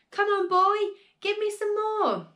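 put-on high, pushy old woman's yell; impatient yell. A narrator's reading. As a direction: yell down at the boy, demanding. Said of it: "she yelled".

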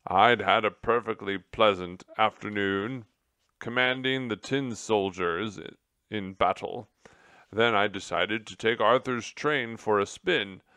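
put-on loud, aggrieved old officer; self-pitying general. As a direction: grumble through the tale. General tells his tale.

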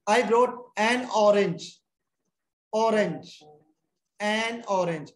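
slow teacher's model of "orange", opening vowel clearly sounded; pronunciation demo. Shown as a demonstration. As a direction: say "an orange" slowly, drawn out for the class. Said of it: "बस वैसे word नू pronounce करके देखने". ("orange" का धीमा, साफ़ उच्चारण)

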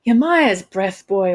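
acted astonished oath; incredulous. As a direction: exclaim slowly in disbelief. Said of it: "followed by an incredulous noise".

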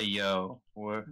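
low-pitched laid-back hail; calming. Acted. Adventurer calms a panicked woman, low easy voice. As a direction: keep it low to settle them. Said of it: "calm her down".

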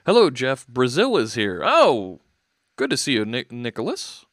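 loud, goofy welcome to viewers; loud silly shout-outs to chat; silly greetings. Real, not acted. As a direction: get punchy and boom the hellos. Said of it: "I'm getting silly".

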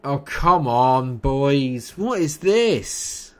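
slow, drawn-out wail, rising high; real whining despair; exasperated pleading. Real, not acted. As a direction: plead loudly with your hopeless team. Pleading with own team.

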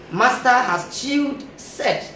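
master has chewed set, slow and chunk by chunk; syllabated. Shown as a demonstration. Teacher splitting Massachusetts into its meanings, slowly syllabated. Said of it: "going to have it syllabated".

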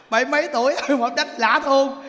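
breathless laugh then words. Real, not acted. Monk laughing at the old husband.

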